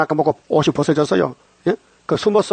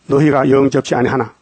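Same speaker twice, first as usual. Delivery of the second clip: scripture reading; 2 semitones lower than usual. Acted. Scripture verse read slowly.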